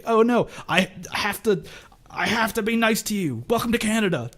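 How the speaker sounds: a hammed-up hint of Canadian politeness; mock polite Canadian.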